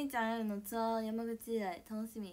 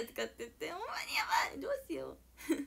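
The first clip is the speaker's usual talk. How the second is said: worried whisper; 6 semitones higher than usual. Real, not acted. Whispered worry about her accent.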